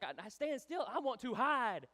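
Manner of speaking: high, loud, slowing protest; mock alarm. Frightened follower told to stand still, mock-alarmed outcry. Acted reaction to approaching army.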